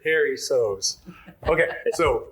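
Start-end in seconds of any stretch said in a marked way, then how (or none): 0.0-1.0 Paceros enunciated as "PAIR-ee-sohz". Shown as a demonstration. Host shows how they say Paceros, enunciated PAIR-ee-sohz. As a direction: sound out each syllable of "Paceros", PAIR-ee-sohz. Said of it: "I enunciate it".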